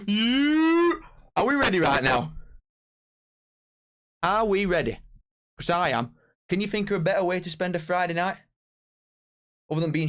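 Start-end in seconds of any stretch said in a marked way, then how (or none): 0.1-0.9 high, loud whoop of excitement; hype yell. Acted. Streamer whooping at his chat, loud and high. 1.4-6.1 higher, louder announcer-style build-up; hype-man call. Acted. Streamer hyping his chat for kick-off, loud and high.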